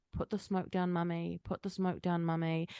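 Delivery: soft, small voice nagging inside her head; a quiet little voice pleading from within; little inner voice. Retold or imitated. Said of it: "a little voice in my head going".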